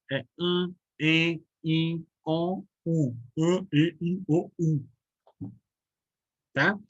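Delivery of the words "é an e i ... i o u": AN, E, I, O, U each nasalized and separate; isolated nasal vowel sounds, evenly spaced. Shown as a demonstration. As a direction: sound out each vowel through the nose, one by one. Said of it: "só que é um A, E, O, U nasal".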